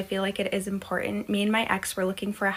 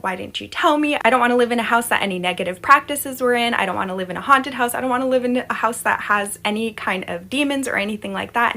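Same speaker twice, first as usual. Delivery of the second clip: louder, upset complaint to her ex; raised voice pleading not to live in a haunted house; retold upset; 2 semitones higher, 6 dB louder than usual. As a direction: protest like you are hurt and alarmed. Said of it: "was very upset".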